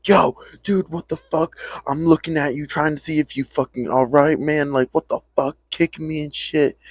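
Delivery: high-pitched outraged friend voice; indignant friend. Retold or imitated. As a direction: squeak out your outrage at being kicked. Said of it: "And he's like".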